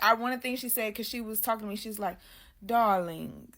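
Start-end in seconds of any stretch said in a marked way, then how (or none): 2.6-3.5 lightly imitated old-fashioned elegant lady; a hint of old-time elegance; elegant lady of another time. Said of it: "the voice was very elegant".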